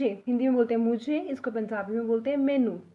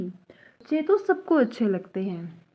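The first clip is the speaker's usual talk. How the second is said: slow, careful बच्चे तो सबको अच्छे लगते हैं; teacher reading slowly; slow first read; 3 semitones lower, slower than usual. Shown as a demonstration. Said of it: "sentence set, then repeated".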